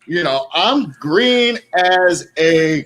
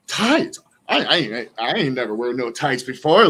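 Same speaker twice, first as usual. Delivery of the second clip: Heath imitation; 4 semitones lower than usual. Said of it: "And Heath's like".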